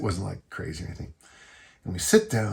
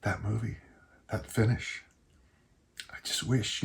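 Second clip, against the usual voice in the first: tearing up; 5 dB quieter than usual. Real, not acted. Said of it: "even now I'm tearing up a little bit".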